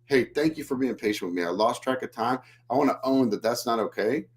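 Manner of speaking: sincere apology to a waiting wife, calm and grounded; calm sincere thanks. Shown as a demonstration. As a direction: thank her calmly, taking full ownership. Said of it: "What could I say instead?".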